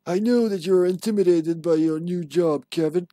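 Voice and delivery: in-game document read aloud; reading a memo aloud. Acted. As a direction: read out the letter with an instructive lilt.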